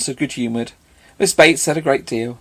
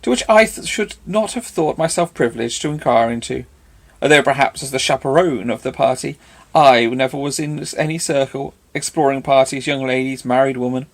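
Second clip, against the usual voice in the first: emphatic; 2 semitones higher than usual. Acted. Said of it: "cried Missus Elton emphatically".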